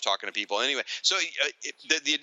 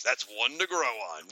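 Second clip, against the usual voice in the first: Hasselhoff impression. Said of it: "David Hasselhoff goes".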